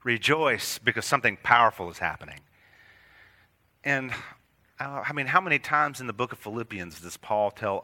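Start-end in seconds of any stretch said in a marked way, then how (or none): 0.0-2.4 joyful command. Retold or imitated. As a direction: call out the good news. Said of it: "It's like".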